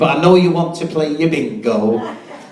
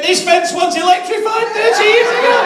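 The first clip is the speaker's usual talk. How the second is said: a hint of a wife's reply. Wife's punchline.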